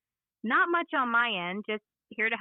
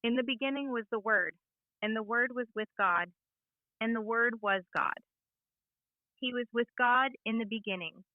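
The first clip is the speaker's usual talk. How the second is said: measured sermon reading with pauses between phrases; clear pulpit conviction. Shown as a demonstration. AI assistant preaching John's gospel on request, with clear conviction. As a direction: read scripture clearly from the pulpit. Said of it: "speaking clearly and with conviction".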